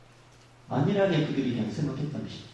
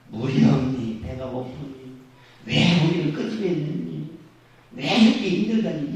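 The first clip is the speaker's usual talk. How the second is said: whiny grumbling; slower than usual. Retold or imitated. Mimicking grumbling Israelites.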